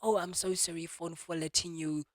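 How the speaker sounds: apologizing to phone. Retold or imitated. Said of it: "in my head I'm going".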